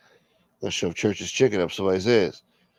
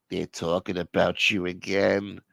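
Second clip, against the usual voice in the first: brooding caller; 3 semitones lower, 5 dB quieter, slower than usual. Acted. Acting brooding caller on phone.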